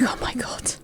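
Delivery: awed whisper then a laughing hello; breathless swoon. Retold or imitated. Starstruck fan whispering to the stage. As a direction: gasp it out, starstruck.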